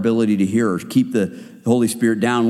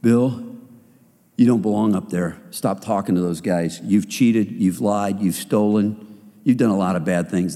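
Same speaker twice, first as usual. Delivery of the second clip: accusing devil voice; 6 semitones lower than usual. Retold or imitated. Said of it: "Satan's voice in our head".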